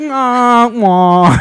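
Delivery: drawn-out mock crying "wah"; mock wail. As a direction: wail in exaggerated disappointment. Mock wailing at being cut off.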